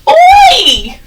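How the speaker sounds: high, loud shouted Oi. Shown as a demonstration. Teacher leads class leaping, shouting Oi. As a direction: call it out as you jump. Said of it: "Let's all leap together".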